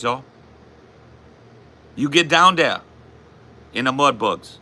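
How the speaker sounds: high-pitched Cajun cooking host; put-on Louisiana Cajun accent, pitched well up. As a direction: play a Cajun cook announcing the recipe. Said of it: "How's your Cajun accent so good?".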